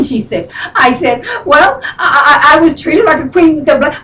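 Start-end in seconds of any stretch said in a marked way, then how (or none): 1.5-4.0 chuckling through the words; laughing it off. Real, not acted. Laughs off friend's advice.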